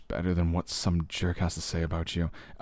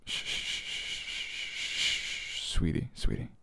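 hushing whisper; 7 semitones lower, 7 dB quieter, much slower than usual. Acted. Hushing crying partner.

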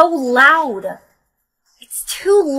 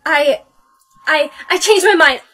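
nervous refusal; 3 semitones higher, 4 dB louder than usual. Acted. Refusing vaccine among creepy people.

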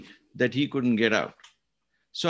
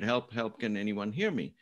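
softer, an inner cry for help; quiet inner plea; 3 semitones lower, 6 dB quieter than usual. Retold or imitated. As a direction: say it like a thought in your head. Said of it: "that statement in our head".

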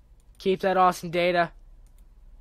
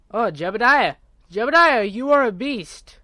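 loud, high, thrilled praise; excited cheer; 5 semitones higher, 7 dB louder than usual. Real, not acted. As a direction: cheer the pilot on. Cheering a successful landing.

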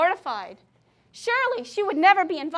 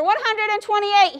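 higher and louder, grinning triumph; announced with a grin; 6 semitones higher, 6 dB louder than usual. A narrator's reading. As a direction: proclaim it with a grin, pleased with yourself. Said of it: "he announced with a grin".

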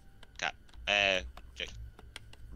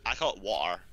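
Scottish water; 3 semitones lower than usual. Shown as a demonstration. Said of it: "the way I say it is Scottish".

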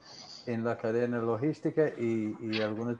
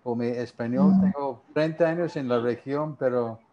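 Spanish with a gringo accent; English speaker's accent in Spanish; American accent Spanish. Real, not acted. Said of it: "sigo hablando como gringo".

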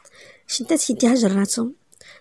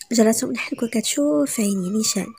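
ordinary delivery

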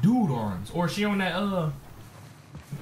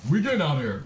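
deeper Abby voice; faster than usual. Shown as a demonstration. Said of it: "I'm talking for Abby".

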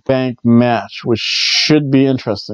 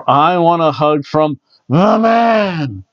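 drawn-out, slightly raised sign reading; reading fan sign; 3 semitones higher, slower than usual. Retold or imitated. Reading a fan's sign aloud, playful slow announcement. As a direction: read it slowly, stretching out "the man". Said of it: "whenever I see a sign out there".

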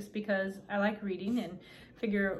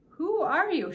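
higher, emphatic on the first word; astonished little question, pitched up; wondering question; 8 semitones higher, 4 dB louder, slower than usual. A narrator's reading. Ellie to the tiny man in her dollhouse, amazed.

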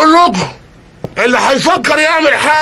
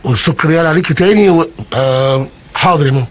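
sweet-talking; 7 semitones lower than usual. Acted. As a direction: soothe her gently, like a dutiful son. Robber sweet-talks old mother.

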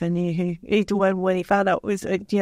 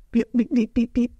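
censor beep imitation; 3 semitones higher than usual. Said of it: "it was just like".

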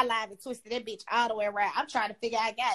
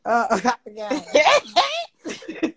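laughing; 3 semitones lower, 8 dB louder, much slower than usual. Real, not acted. Laughing at own memory lapse.

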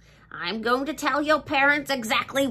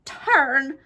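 breaking into a cry; 4 semitones higher, slower than usual. Acted. Begging the reader not to turn, voice breaking. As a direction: let the plea collapse into tears.

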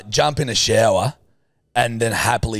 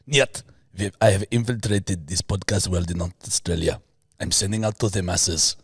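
bad Russian accent; 4 semitones lower, 4 dB quieter than usual. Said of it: "what's a Russian accent?".

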